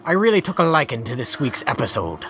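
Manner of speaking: a hint of an old sailor reading; pirate voice. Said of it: "This one needs to be read in a pirate voice".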